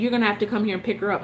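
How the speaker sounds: rattled off fast with a scoffing laugh; mocking bossy demand. Repeating the ex's order, fast and mocking with a laugh. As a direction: mimic him ordering her, quick and sneering. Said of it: "Not asking me, just saying".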